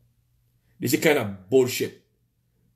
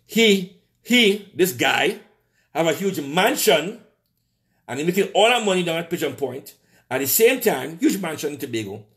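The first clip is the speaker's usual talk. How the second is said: higher, slowed, outraged at the insider; indignant rant; 5 semitones higher than usual. Real, not acted. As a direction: drag out the disbelief. Indignant about rich insider.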